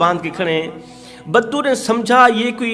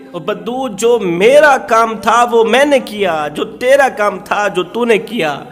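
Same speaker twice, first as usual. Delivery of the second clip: fervent preaching; 3 semitones higher than usual. Acted. Preacher voicing Umar to the humbled bedouin, impassioned.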